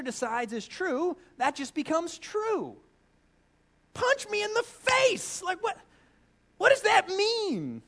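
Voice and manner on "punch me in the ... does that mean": high, incredulous outburst; hammed-up exasperation; mock outrage. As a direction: throw up your hands in disbelief. Mock outrage at absurd idea.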